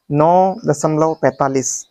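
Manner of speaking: slow, पैंतालीस as one whole number; wrong reading demo. Shown as a demonstration. Teacher testing students with a mistake, demonstrated wrong reading. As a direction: read पैंतालीस slowly as a single number. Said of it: "गलत है?".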